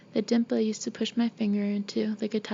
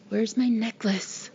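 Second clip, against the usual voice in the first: slow, posh, haughty demand; imperious posh girl; slower than usual. A narrator's reading. Ghostly girl hunting her necklace, imperious and posh. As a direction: draw it out imperiously, very well-bred. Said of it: "It's high and imperious and quite posh sounding".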